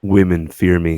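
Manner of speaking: line by line with pauses; one line at a time. Shown as a demonstration. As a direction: deliver each line separately. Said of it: "one line at a time".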